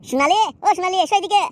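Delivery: fond calling. Acted. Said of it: "অমন করে বলবে না কিন্তু".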